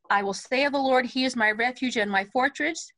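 one breath from "I will say" to "fortress"; phrase up to fortress. Shown as a demonstration. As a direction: keep it joined until "fortress", then pause for breath. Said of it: "Fortress, take a breath".

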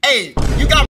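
loud flirty pickup call. Acted. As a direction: call out to her with swagger.

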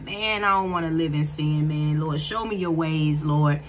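low, sincere whispered-style plea; low earnest inner prayer. Retold or imitated. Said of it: "You like".

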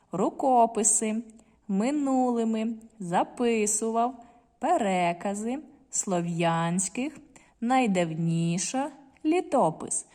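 each word read slowly, stress clearly marked; slow, deliberate teacher reading for stress practice; careful stress reading. Shown as a demonstration. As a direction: read the list slowly, leaning on every stressed syllable. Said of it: "звертаємо увагу, діти, на наголос".

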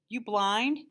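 snappy, bored car hop; rude question. A narrator's reading. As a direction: toss it off rudely. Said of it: "she said".

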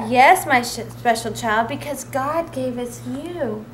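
slow, tender mother voice. Acted. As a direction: say it lovingly and slowly. Mother bear reassuring.

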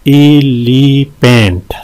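"एलिफेंट" slowly, in three drawn-out beats; syllable breakdown. Shown as a demonstration. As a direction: stretch each syllable of "एलिफेंट". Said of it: "तीन है इसमें". ("एलिफेंट" तीन हिस्सों में खींचकर)

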